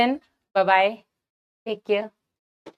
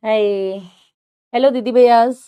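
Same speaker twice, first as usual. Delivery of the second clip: bright, louder hello to the viewers; cheery greeting; 4 dB louder than usual. Shown as a demonstration. Mother prompting her son to greet viewers, cheery and loud. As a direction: cue the child with a big hello. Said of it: "Say hi to everyone".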